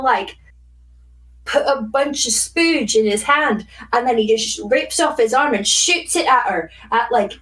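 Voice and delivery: fish facts in a Scottish voice; Scottish accent, in character; put-on Scottish accent. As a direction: play up a Scottish lilt. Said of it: "fish facts with a voice".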